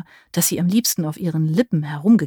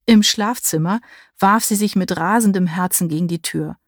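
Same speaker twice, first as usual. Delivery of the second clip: plain reading voice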